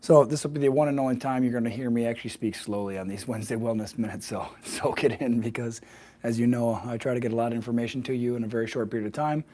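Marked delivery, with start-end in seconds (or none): 0.0-6.8 slightly hoarse, rough throat. Real, not acted. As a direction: talk through a frog in the throat. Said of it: "I'm slightly hoarse".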